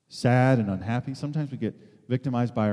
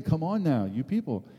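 higher, strained pleading of a worried teacher, slowing as it climbs; a hammed-up anxious teacher with a Russian accent, pitched up; teacher's pleading voice; 6 semitones higher than usual. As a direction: mock-desperate instructor begging the class to ask questions. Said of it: "Doctor Ellie, uh, was saying".

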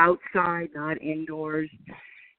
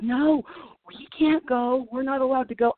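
imitating nervous girls; 7 semitones higher than usual. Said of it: "And they're like".

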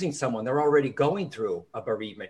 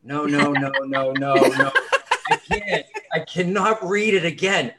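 loud, laughing refusal, voice jumping up on I can't; laughing protest; 6 dB louder than usual. Retold or imitated. Author recalls refusing to record his own audiobook, laughing protest. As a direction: mock-desperate no, no, no through laughter. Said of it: "And I went".

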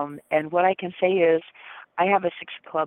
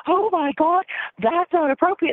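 much higher, prissy scandalized voice; prim disapproving lion; 10 semitones higher, 3 dB louder than usual. Retold or imitated. Leo side scolding the monkey side, high scandalized voice. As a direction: sound primly scandalized. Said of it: "the land goes".

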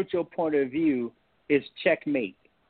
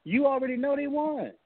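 higher-pitched little voice in the head; imitated inner reminder, pitched up; 8 semitones higher than usual. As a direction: pipe up as a nagging thought. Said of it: "something will click in my head".

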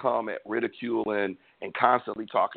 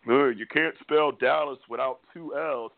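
slow, smug mock taunt; mocking meme voice; 3 semitones higher than usual. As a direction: read the meme slowly, all smug. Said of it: "post memes and".

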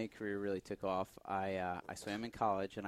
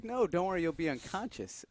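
lightly voiced reassuring nurse, pitched up; retold nurse's reassurance; 8 semitones higher than usual. Nurse to worried patient before the procedure, imitated reassurance.

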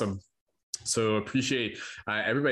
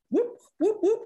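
excited whooping; 3 dB louder than usual. Real, not acted. Cheering after the poem.

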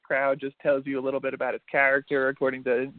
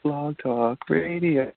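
mock jingle; much slower than usual. Mock station jingle while waiting.

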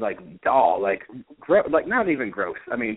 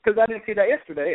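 sarcastic; 10 semitones higher than usual. Retold or imitated. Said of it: "And she's like".

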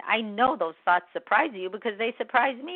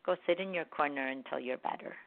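softer, lower mock scolding; scolding inner voice; 3 semitones lower, 8 dB quieter than usual. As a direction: send a child to the corner, gently. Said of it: "Instead of".

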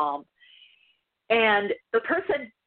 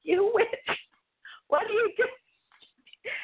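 much higher mock scream, building; imitating a frightened man's crying yell; retold screaming; 10 semitones higher, much slower than usual. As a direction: shriek the accusation, slowing at the end. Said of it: "he just started screaming at me".

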